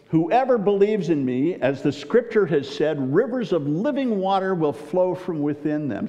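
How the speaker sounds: fervent call to the festival crowd; ringing proclamation. Acted. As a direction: proclaim it like a prophet at the feast. Jesus proclaims at the ceremony.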